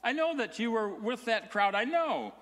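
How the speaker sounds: put-on high, excited accusing girl's voice; a servant girl blurting out her accusation. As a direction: point the finger, stammering with eagerness. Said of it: "another servant girl says".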